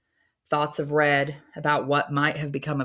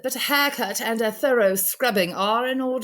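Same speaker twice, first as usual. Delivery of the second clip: Missus Liddell; 7 semitones higher than usual. Acted.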